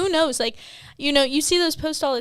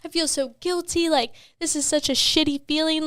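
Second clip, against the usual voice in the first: imitating her own tearful, higher voice; retold crying; 4 semitones higher than usual. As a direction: replay the weepy phone call, pitched up. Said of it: "on the phone with Zach crying".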